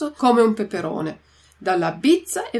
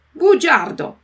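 angry insult shout; 6 semitones higher, 8 dB louder, slower than usual. Acted. Geppetto calls the carpenter liar.

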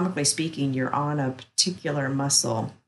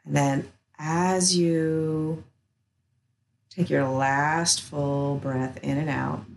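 calm, slow guided relaxation voice; soothing massage murmur; slower than usual. Acted. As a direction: guide them gently into rest, unhurried. Guides release of the hold.

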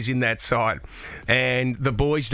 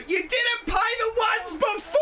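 retold yell at umpire. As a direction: shout it at the umpire from the sideline. Umpire yelled at from sideline.

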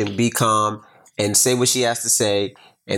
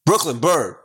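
retold eager child; 4 semitones higher than usual. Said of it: "Here's my little Brooklyn".

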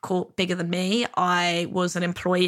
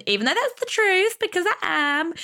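laughing insistence; 11 semitones higher than usual. Real, not acted. Jokingly insists she's a queen.

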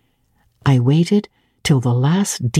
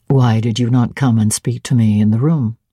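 a hint of a lower, stern master; lightly voiced Rochester; 6 semitones lower than usual. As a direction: drop a little lower for the gruff master.

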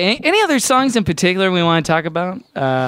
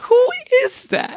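very high, drawn-out puppet falsetto; hammed-up high puppet voice; Muppet character. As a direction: squeak it as a silly puppet. Muppet voice in skit.

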